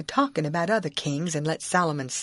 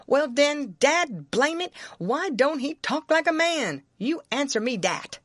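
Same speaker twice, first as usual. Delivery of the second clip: higher-pitched, worked-up Southern dialect; insistent demand for an answer, pitched up; exasperated challenge; 8 semitones higher than usual. Acted. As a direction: drive the winning point home, indignantly. Jim triumphantly winning the argument.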